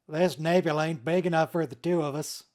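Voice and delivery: put-on lightly done Texas cowboy accent. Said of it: "that's Texas".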